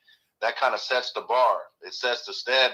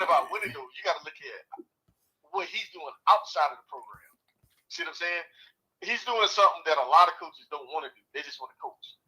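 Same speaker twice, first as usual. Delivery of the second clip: underwater; 2 semitones higher than usual. Real, not acted. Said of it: "You sound like you're up underwater".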